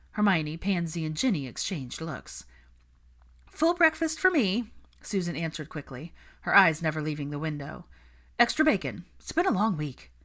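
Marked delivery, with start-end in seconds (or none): 3.5-10.1 a tired, clipped friend ordering; a hint of weary brunch guest; lightly voiced Susan.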